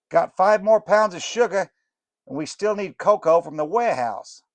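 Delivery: fast and pushy, high up; Snickerdoodle voice. Acted. Snickerdoodle telling Morlock about the sugar, loud and high. Fudge makers talking shop.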